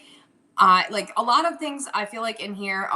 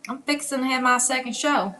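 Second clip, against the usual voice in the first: slightly raised Southern lilt; sweet Southern gal; 4 semitones higher than usual. Acted. Seller echoing the newcomer's line in a Southern accent. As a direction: put on a light Southern accent. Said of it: "you sound like a sweet Southern gal".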